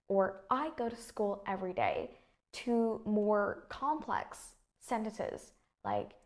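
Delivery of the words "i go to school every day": statement easing down on "every day"; falling intonation. Shown as a demonstration. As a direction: start up on "I", come down by "day". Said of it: "my tone of voice falls".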